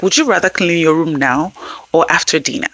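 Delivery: even, gentle question; a parent giving a choice, gently; offering a choice. Shown as a demonstration. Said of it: "you can give choices like".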